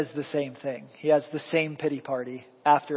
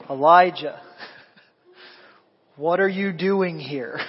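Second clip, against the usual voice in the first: laughing; 3 dB louder than usual. Acted. God's question, laughing through it.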